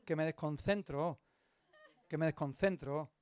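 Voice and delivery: whisper-like, so nobody hears; hushed aside. Retold or imitated. Pastor quietly begs the man to stop before he preaches, hushed.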